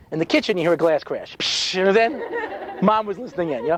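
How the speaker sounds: normal talking voice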